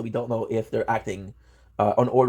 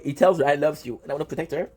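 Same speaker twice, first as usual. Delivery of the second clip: tearing up; 2 semitones higher than usual. Real, not acted. Fan moved by the love story he's reading, tearing up. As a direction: fight back real tears. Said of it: "I fucking teared up".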